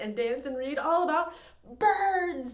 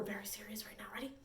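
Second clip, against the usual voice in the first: whisper; 5 semitones lower, 17 dB quieter, much faster than usual. Pretend. Mock-serious hush before game.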